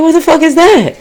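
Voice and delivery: high-pitched startled question; retold alarmed disbelief. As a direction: imitate being thrown by a strange noise. Retold reaction to strange noise.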